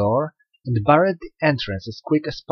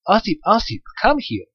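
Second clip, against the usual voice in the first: calling out; 8 semitones higher than usual. A narrator's reading. Mother calling at the dike to trap Ossip: calling out. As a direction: lure him up with a rising call. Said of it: "she began calling out".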